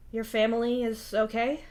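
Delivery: mildly worried, tentative asking; worried question. Acted. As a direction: ask with a touch of concern. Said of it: "Solix asks worriedly".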